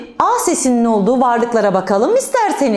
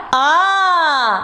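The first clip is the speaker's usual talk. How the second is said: drawn-out indignant cry, lightly acted; mock annoyed "aa"; 3 semitones higher than usual. Shown as a demonstration. Teacher recalls her anger for children, mock annoyed. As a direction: stretch it in pretend reproach. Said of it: "kızınca ne dedim".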